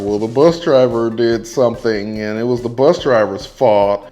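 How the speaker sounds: mock the family pinning it on the driver; blaming family voice. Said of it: "would've been trying to blame the bus driver".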